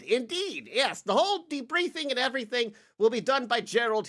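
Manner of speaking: high, airy aristocratic voice, pitched well up; lightly hammed-up posh noble; fussy noble lord. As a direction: play a pompous noble fumbling his words.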